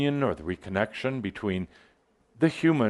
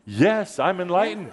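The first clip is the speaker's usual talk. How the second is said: higher, bolder declaration; with attitude; 6 semitones higher than usual. Shown as a demonstration. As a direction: proclaim it with some attitude. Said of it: "say it with a bit of an attitude".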